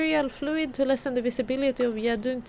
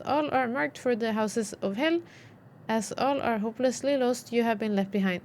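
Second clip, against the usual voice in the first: solemn reading; 2 semitones lower than usual. Acted. Reads scripture text aloud.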